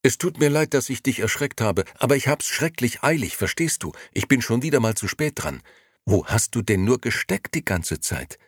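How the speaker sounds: put-on excited old friend pouring out questions. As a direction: gush it out, barely pausing for breath. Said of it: "redete aufgeregt weiter".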